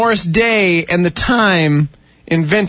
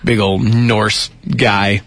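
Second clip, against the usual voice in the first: deep scary voice; 10 semitones lower than usual. Pretend. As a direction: growl it like a giant. Describing scary Norse guy.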